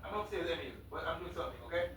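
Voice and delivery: calling out from away from the mic; yelling across the room. Real, not acted. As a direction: shout to someone in another room. Calling out to someone upstairs.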